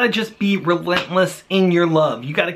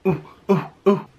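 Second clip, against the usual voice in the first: put-on playful eager child with a raised hand; eager kid answering. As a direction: play a keen pupil begging to answer. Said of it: "why are you raising your hand".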